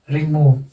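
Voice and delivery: रिमूव with short रि, accented मूव; stress on second syllable. Shown as a demonstration. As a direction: keep रि light and land on मूव in रिमूव. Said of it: "second syllable पर word accent".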